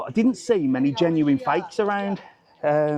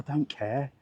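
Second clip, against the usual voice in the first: indifferent husband; 4 dB quieter than usual. Retold or imitated. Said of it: "I'd be like".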